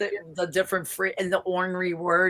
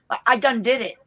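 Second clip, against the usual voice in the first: put-on Southern accent; 4 semitones higher, 4 dB louder than usual. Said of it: "they put the word done".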